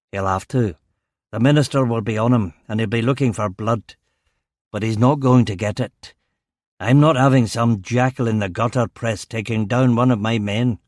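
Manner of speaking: stern Govan police chief, lightly voiced; Strong. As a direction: warn a subordinate in a Govan accent. Narrator voices the chief superintendent.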